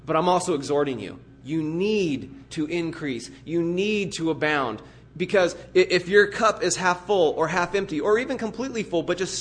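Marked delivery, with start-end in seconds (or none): 0.0-4.8 mild command. Retold or imitated. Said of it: "But then he's saying".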